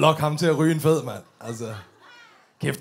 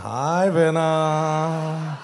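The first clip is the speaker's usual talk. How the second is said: politician greeting; much slower than usual. Shown as a demonstration. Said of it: "han gør sådan her".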